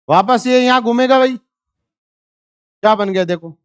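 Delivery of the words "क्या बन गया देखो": slow reveal. Shown as a demonstration. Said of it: "teacher drawing out the reveal".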